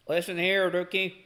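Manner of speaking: lightly voiced neckbeard locomotive, drawn-out ending; a hint of a redneck engine character. Imagining how Stanley talks, lightly put-on neckbeard voice. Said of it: "imagine him having a neckbeard voice".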